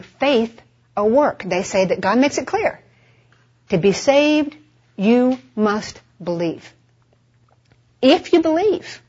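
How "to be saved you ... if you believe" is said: deliberate, weighted YOU in "you must believe"; stress on YOU. Retold or imitated. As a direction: set YOU apart with slow, pointed emphasis. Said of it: "Putting the emphasis on what you do".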